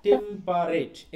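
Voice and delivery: "টেম্পারেট" slowly, broken into tem, pa, reit; syllable by syllable. Shown as a demonstration. Teacher splitting the word for students to count syllables, slow syllable by syllable. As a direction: draw out each syllable of "টেম্পারেট".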